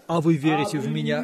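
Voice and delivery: ordinary talk, nothing marked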